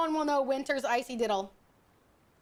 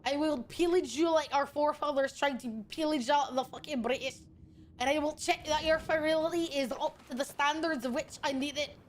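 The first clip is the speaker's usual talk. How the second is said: Scottish. Acted. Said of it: "They want me to be Scottish and angry".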